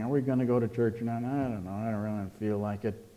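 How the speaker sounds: soft, half-hearted mock reluctance; reluctant churchgoer. Churchgoer wavering on Sunday morning, mild mock reluctance. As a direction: lightly voice someone who can't be bothered.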